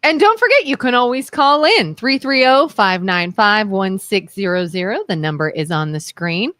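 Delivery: announcer voice. Shown as a demonstration. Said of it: "What's my announcer voice".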